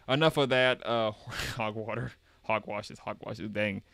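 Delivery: folksy Southern dismissal; Southern accent. Acted. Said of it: "that is definitely Southern".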